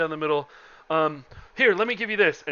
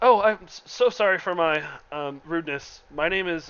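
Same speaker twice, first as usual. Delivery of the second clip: flustered, nervous, hesitant, fumbling delivery. Voicing the merchant Alfie Thomason in a story, nervous Alfie Thomason voice. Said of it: "he's still just so nervous he can't even".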